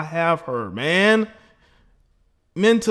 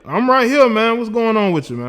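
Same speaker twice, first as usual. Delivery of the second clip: loud, high raised voice; real raised-voice phone reply; calling out; 7 semitones higher, 7 dB louder than usual. Real, not acted. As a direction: make yourself heard to a caller. Calling to caller who can't hear.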